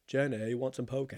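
light impression of a Southern movie character; Forrest Gump. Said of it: "like Forrest Gump".

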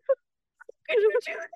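high, slow, laughing through it; laughing disbelief. Retold or imitated. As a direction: squeal it out between laughs. Laughing, recalling his horrified face.

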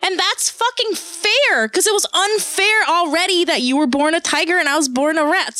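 high-pitched, worked-up protest; indignant rat. Acted. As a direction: argue the underdog's case, voice climbing high. Voicing the rat's defiant defense.

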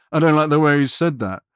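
confidently voiced client complaint; with conviction. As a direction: object with mild, acted conviction. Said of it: "has enough conviction and says".

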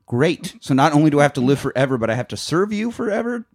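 mock sarcastic complaint. Acted sarcastic reply to gift.

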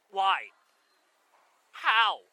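sharp shocked cry; shocked outburst. Acted. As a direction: blurt it out in shock.

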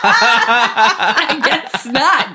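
slow words through laughter; laughing. Real, not acted. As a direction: laugh while you concede. Laughing at the loss.

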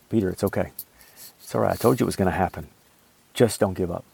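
gentle reassurance. Pretend. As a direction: soothe him like a forgiving friend. Jesus imagined reassuring Peter.

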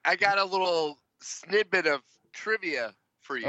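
slurring words after drinks. Real, not acted. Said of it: "You're slurring your words".

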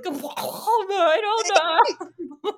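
high, choked mock sob; imitating sobbing speech. Showing her friend how she talks while sobbing, a high choked mock sob. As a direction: squeeze the words out like you're holding back snot and tears. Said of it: "it's just gonna be like".

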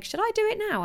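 high, questioning inner worry; anxious self-doubt. Retold or imitated. Asking herself about a coach, high and unsure. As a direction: voice the nervous beginner's question. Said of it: "You're a bit like".

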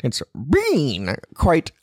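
put-on light Canadian accent, slow and drawn out; a hint of a Jordan Peterson Canadian accent. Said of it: "Jordan Peterson type accent or slash Canadian accent".

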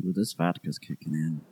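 tipsy voice. Acted. Player voicing tipsy character.

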